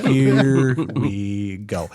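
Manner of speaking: slow drawn-out laughing here we go. Retold or imitated. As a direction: stretch it out while laughing.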